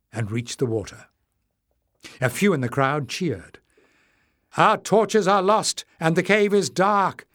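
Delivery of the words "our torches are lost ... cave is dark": high loud call. A narrator's reading. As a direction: call out across the water. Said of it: "Leif called".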